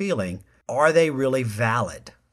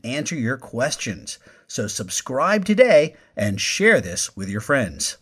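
louder, upbeat announcer pitch; podcast promo read; 4 dB louder than usual. Acted. Host pitching listeners to subscribe, upbeat and loud. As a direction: sell the subscribe button with energy.

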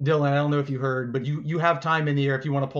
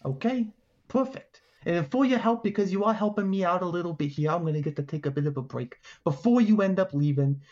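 lightly voiced generous alligator; a hint of a gator dealmaker; alligator making an offer; 2 semitones higher than usual. Alligator offers helpers a prize, lightly voiced dealmaking.

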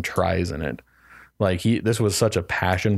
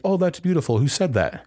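lady gushing; 8 semitones higher than usual. Retold or imitated. Lady voiced in retold scene.

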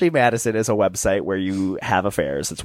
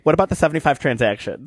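higher, faster accusing Sonia; lightly voiced Sonia pressing hard; imitating Sonia; 5 semitones higher, faster than usual. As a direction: rattle it off like an interrogation. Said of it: "Sonia was like".

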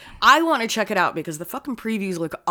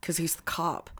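whisper; 4 semitones lower, 10 dB quieter than usual. Real, not acted. Whispered aside to friend.

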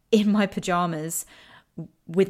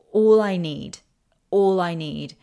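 raised voice, pressing the words out; loud emphatic plea; 7 dB louder, slower than usual. Retold or imitated. Telling MJ desperately what she needs, loud pleading. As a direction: plead loudly, hitting "all I need" hard.

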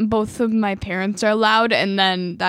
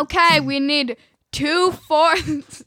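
slow, raised call, a little higher; yelling in mic; 5 semitones higher, slower than usual. Acted. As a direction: call it out as a playful yell. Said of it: "Don't yell in the mic".

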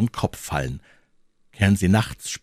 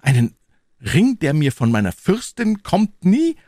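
loud, soaring high refusal; young hero protesting passionately; impassioned cry; 12 semitones higher, 7 dB louder than usual. Acted. D'Artagnan refusing to sell his princess's ring, loud high outcry. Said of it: "rief D'Artagnan".

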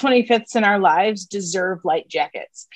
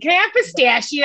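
put-on ordering with a Chicago accent, "pistachio" as pis-tash-ee-oh; a broad Chicago order at the counter; playful Chicago accent, American "pistachio"; 5 semitones higher than usual. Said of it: "in my Chicago accent".

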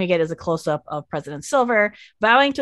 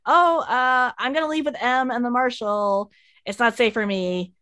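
flustered hasty exit; 3 semitones higher, slower than usual. Retold or imitated. Wade abruptly fleeing the mansion.

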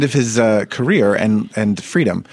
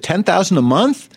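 incredulous; 6 semitones higher than usual. Retold or imitated. Reporter's incredulous question.

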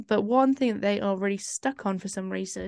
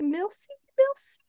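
mock French accent; 12 semitones higher than usual. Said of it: "I was like".

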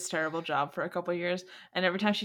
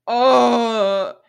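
mock shocked oh; 3 semitones higher, 12 dB louder than usual. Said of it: "And then I was like".

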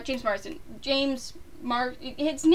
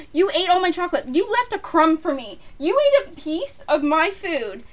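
mock outrage; 3 semitones higher, 3 dB louder than usual. Scolding friend over chocolate.

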